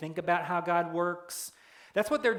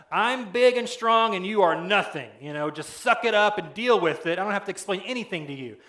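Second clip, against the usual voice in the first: louder, gruff boasting voice of a bully god; harsh and domineering; 4 dB louder than usual. Retold or imitated. Preacher voicing God as a harsh bully, dismissive and gruff. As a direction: throw your weight around, dismissive. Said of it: "it kinda comes off like".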